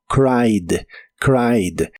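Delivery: "cried" slowly as "craid"; only D sounded. Shown as a demonstration. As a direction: end "cried" on a plain D, no extra syllable. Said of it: "solo se pronuncia la D". ("cried" lento, solo con la D final)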